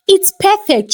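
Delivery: a touch of eager delight. A narrator's reading. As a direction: let the excitement jump out. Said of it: "she said eagerly".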